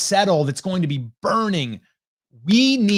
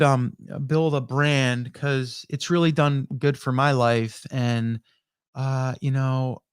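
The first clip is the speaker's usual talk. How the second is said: unenthusiastic pitch; 3 semitones lower than usual. Shown as a demonstration. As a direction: talk like you don't care at all. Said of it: "you hear how my tone is".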